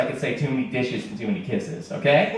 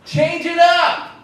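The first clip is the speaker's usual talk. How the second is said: high, loud, slow mock coaching; high-pitched heckle at the sad guy; heckling Phil; 12 semitones higher, 4 dB louder, slower than usual. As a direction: egg Phil on like a pushy coach. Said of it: "I'm like, Phil".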